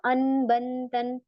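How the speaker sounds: अन बन तन recited very slowly; slow recitation. Shown as a demonstration. Teacher reminding students of tanween sounds, slowly. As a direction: draw out अन बन तन syllable by syllable. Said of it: "जो हमने अभी तनवीन देखा ना".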